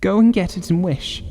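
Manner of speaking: very high, quivering command; excited cry. Acted. Wife urges husband, high and quivering. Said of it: "cried his wife".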